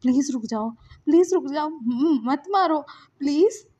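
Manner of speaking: nervous pleading. Acted. Lansan holds Wing back and begs, frightened. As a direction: plead haltingly, pitch climbing. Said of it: "घबराया हुआ था".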